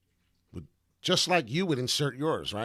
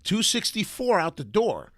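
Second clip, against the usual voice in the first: slow, high, louder call-out; catchphrase call-out; 5 semitones higher, 7 dB louder, slower than usual. Retold or imitated. Host shouting his own price call to viewers, slow and high. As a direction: sing out the catchphrase like a slogan. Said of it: "when Wall Street Pete says".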